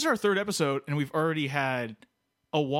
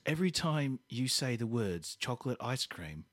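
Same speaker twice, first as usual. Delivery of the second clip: mock threat; 3 semitones lower, 5 dB quieter than usual. Threatening in character.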